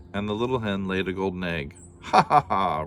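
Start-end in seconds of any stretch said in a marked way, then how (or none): 2.1-2.8 loud giant laugh; giant roaring with laughter. Acted. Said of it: "roared the giant".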